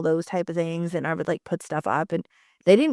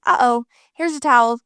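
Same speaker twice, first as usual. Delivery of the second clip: put-on higher, louder sing-out to a little kid; playful parent; 5 semitones higher, 8 dB louder than usual. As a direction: make light of a spill. Parent reacting lightly to toddler spill.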